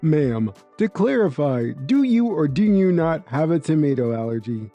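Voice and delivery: measured manager's question; very professional. Acted. Manager asking a customer to clarify, very professional. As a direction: put it formally, with restraint. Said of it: "very professionally and says".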